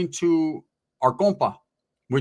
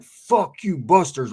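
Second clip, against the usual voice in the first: shouted insult; 3 semitones higher, 4 dB louder, much slower than usual. Retold or imitated. Rival shouting insult in fight.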